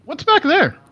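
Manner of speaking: put-on high, loud childlike question; curious little kid. Kid pointing at a door, high curious voice. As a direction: pipe up like a nosy small child.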